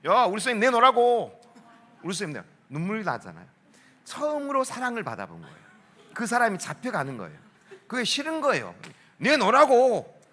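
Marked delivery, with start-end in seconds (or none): 0.1-1.4 high, loud imitation of kids yelling; noisy demand. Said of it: "시끄러워 죽겠어". 9.2-10.2 high, drawn-out mock yell; noisy demand. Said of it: "나도 그게 시끄러워 죽겠어".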